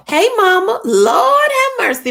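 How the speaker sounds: high, loud greeting that bursts out at seeing her mother; happy exclamation of disbelief; delighted surprise. Real, not acted. Mother joins the live on time.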